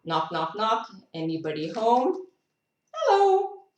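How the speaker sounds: light calling out, rising to a high hello; playful woodpecker caller. Pretend. Reader voicing a woodpecker knocking, calling hello. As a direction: call out as if knocking at a door. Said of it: "Woodpeckers go".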